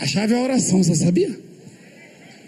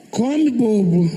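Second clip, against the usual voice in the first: coaxing host; much slower than usual. Retold or imitated. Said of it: "Ah, acho que não".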